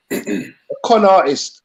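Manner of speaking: slow, each word spelled out for him; slow and clear. Real, not acted. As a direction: repeat it slowly so he gets it. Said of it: "A what?".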